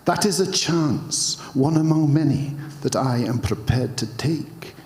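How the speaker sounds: bad, wobbly Scottish accent attempt. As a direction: try a Scottish accent and keep slipping. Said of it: "try and do this in a Scottish accent".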